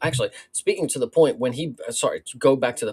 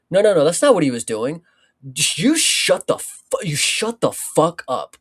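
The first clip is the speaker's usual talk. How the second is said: mock angry coach; 4 semitones higher, 4 dB louder than usual. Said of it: "this coach had the audacity".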